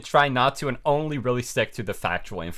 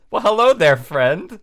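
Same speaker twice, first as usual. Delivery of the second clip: mock sinister greeting; 6 semitones higher, 5 dB louder than usual. Ben's DM voiced in story.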